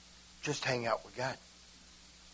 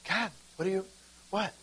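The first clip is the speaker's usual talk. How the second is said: simple prayer; 5 semitones higher, 8 dB quieter than usual. Shown as a demonstration. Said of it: "Just say".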